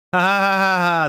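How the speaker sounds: high, loud fake villain laugh; mean laugh. A narrator's reading. Snoop mocking the students, mean mock laugh. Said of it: "Snoop laughed meaningly".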